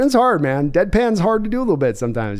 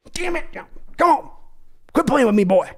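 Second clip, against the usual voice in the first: high, whiny Texan pleading; exasperated Jerry Jones; 8 semitones higher than usual. Acted. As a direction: beg him to quit playing. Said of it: "That was me, Jerry Jones".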